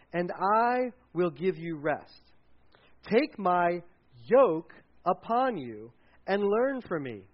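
slow, measured Scripture reading with spaces between phrases; Scripture recitation. Acted. Pastor quoting Jesus's invitation to his congregation, slow recitation. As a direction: recite it slowly, letting each phrase land.

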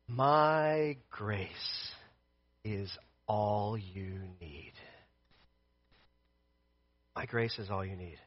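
low, hushed, very slow reassurance; God's gentle answer. Acted. Preacher voicing God answering Paul's plea, soft and solemn. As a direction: speak softly and low, letting each phrase settle. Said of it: "Each time he said".

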